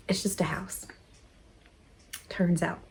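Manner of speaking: whispered, breathless, to herself; soft whisper. Real, not acted. Reflecting on leaving her home, whispered to herself. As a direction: whisper it to yourself, letting go.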